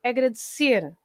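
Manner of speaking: "agradecer" stressed on its last syllable; stress on the end. Shown as a demonstration. Teacher showing the stress rule, "agradecer" with final stress. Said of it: "at the end".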